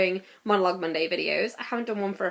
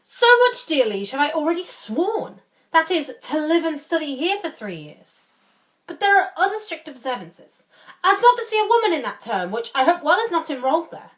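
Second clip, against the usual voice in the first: higher, theatrical Shakespearean grumbling; swooping pitch and long pauses as you balk; reluctant protesting lord; 6 semitones higher than usual. Acted. Playing Barone, balking at the oath.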